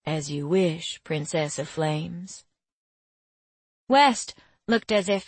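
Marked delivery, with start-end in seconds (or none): 0.0-2.4 low, slow sly male voice; lightly voiced teasing young man; sly Marco. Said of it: "gave me his sly smile and said".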